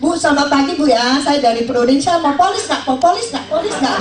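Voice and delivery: high, pushy hard sell at a stranger; badgering an unknown woman to buy; pushy agent pestering a stranger with a high hard sell; pushy salesman pitch. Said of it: "langsung datang".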